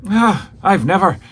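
high mock gasp of outrage; imitating Stewart. Stewart appalled at the Moondog, high mock outrage. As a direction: sputter like a scandalized old man. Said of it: "and Stewart is".

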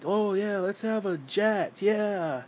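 slow, drawn-out sarcastic cheer; mock enthusiasm. Ranter mocks preachers wanting a jet, sarcastic. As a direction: draw it out in fake agreement.

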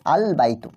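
আল বাইতু drawn out slowly with a clear l; pronounced lam. Shown as a demonstration. Teacher shows lam can be pronounced here, slow clear L in আল বাইতু. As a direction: hold the l of আল before বাইতু. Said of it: "লামটার কিন্তু আমরা pronunciation করতে পারছি".

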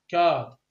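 كارد said slowly with a clear k; teaching pronunciation. Shown as a demonstration. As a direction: spell out كارد starting on a crisp k. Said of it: "إذا راح أكتب ك". (نطق كارد بوضوح مع كاف واضحة)

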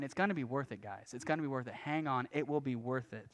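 softly reassuring, dropping away; gentle encouragement. Retold or imitated. Jesus to disciples who will die for him, gentle encouragement. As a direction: quietly urge them to hold on.

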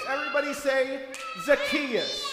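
put-on cue the kids to shout back; call to repeat. Leader calling the children to repeat the name.

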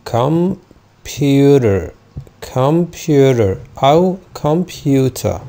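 computer very slow, true t, no final r; British computer, crisp t. Shown as a demonstration. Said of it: "لو أنا مش هنطق ال إي آر".

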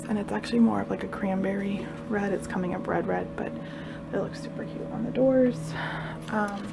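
whispering. Real, not acted. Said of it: "so that's why I have to whisper".

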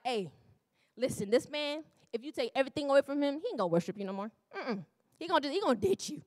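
lightly voiced Satan, quick and casual; breezy slangy Satan, rapid on the threats; casual street-talk Satan. Preacher voicing Satan to God in a light street voice. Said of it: "I don't know why I'm talking like that".

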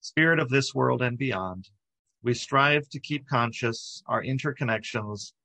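measured, reverent reading of a prayer; spoken prayer with spacious phrasing. Acted. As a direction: read the prayer out phrase by phrase, pausing between. Reads a prayer aloud.

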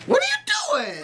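high alarmed shout. Real, not acted. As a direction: yell it in alarm. Startled by sister.

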